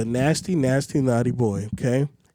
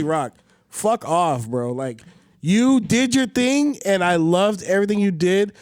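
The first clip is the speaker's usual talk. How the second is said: angry rant; 3 semitones higher, slower than usual. Real, not acted. Ranting at the Rock.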